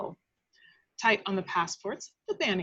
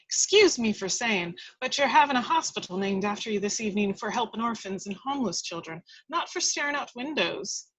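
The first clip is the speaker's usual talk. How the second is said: scolding housekeeper. Acted. Housekeeper chiding Wendy about the evening, brisk. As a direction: rattle off the scolding.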